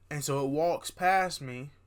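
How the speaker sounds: slow words stretched by a yawn. Real, not acted. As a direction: speak through a big yawn. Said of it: "I am yawning".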